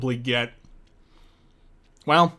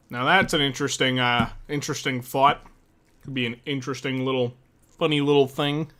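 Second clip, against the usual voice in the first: chewing while talking. Real, not acted. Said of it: "Sorry, I'm trying to eat at the same time".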